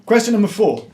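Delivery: booming announcer voice; quizmaster announcement. Acted. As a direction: announce it like a game show host. Quiz announcement, dramatic.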